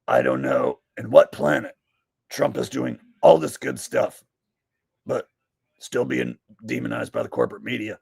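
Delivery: slightly hammed-up echo of a political rant; mocking imitation. Host mimics the Trump defense he just heard, mocking imitation.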